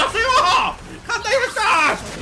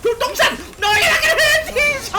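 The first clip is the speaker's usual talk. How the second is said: 신난 고함; 7 semitones higher than usual. Real, not acted. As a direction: holler the attack gleefully, dragging it out. 기술 쓰며 적에게 외침. (웃으며 길게 뽑는 높은 고함)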